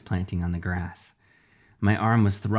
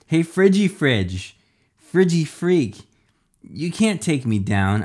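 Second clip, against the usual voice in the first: high, loud taunting call; yelled; 7 semitones higher, 4 dB louder than usual. A narrator's reading. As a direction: goad the enemy, drawing out the names. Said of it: "Iris yelled".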